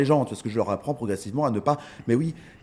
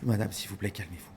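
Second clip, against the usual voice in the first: calm pleading; 4 semitones lower, 6 dB quieter than usual. Retold or imitated. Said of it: "lui dire".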